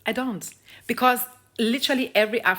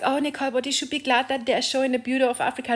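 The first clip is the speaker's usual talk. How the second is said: mock critic voice; 6 semitones higher, faster than usual. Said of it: "And then people are like".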